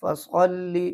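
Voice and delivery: फसल्ली ending in a clear ee; correct reading. Shown as a demonstration. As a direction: finish फसल्ली on ee, not e. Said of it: "लाम ज़ेर ली पढ़ा जाए".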